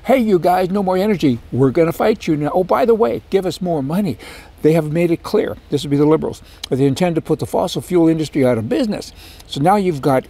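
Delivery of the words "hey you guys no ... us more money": high, lightly mocking voice for Ottawa. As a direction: send up the Ottawa politicians with a sneer. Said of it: "Canada, they said".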